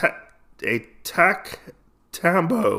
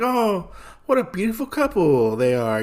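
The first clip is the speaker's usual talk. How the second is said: cooing over a couple, pitched up; mock admiration; 6 semitones higher than usual. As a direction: coo like an admiring passer-by. Passing women admiring the couple.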